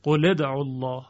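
قل ادعوا الله with qule; kasra reading. Shown as a demonstration. Teacher repeats the common kasra linking. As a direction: link قل with an i vowel.

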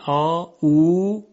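"آ، او" with each vowel drawn out; long vowels. Shown as a demonstration. Teacher naming the long vowels, "آ، او" stretched out. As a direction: hold the vowels of "آ، او" long and steady. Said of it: "صداهای کشیده".

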